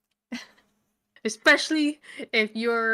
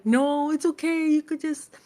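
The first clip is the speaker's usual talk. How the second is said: higher, lazy soothing voice trailing into blah; lightly voiced smooth-talker; mock soothing; 5 semitones higher than usual. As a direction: placate her dismissively. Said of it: "He's like".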